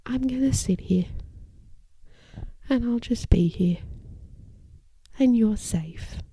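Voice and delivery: put-on sit beside the child and soothe them gently, breathing between phrases; slow calm reassurance. Shown as a demonstration. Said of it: "you can hear those pauses between each statement".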